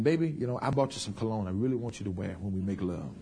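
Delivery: low, soft, gentle request; tactful coaxing. Acted. Wife offering her husband cologne, low and coaxing. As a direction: coax him sweetly and quietly. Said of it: "You gotta be very tactful".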